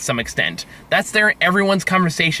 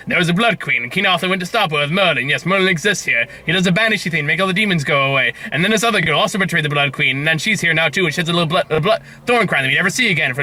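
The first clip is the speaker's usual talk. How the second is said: rushed narration; 5 semitones lower, faster than usual. Retold or imitated. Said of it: "narration again that is so fastly paced".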